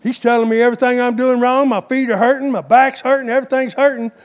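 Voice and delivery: fast, high whining about aches; a hint of a moaning pew-sitter; whiny complaining churchgoer. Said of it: "You'll go from the".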